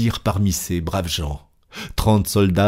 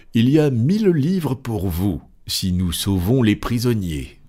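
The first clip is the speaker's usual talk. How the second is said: rallying the soldiers; 4 semitones higher than usual. A narrator's reading. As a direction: announce a reward to the troop, pitch lifted. Fogg addresses the departing soldiers.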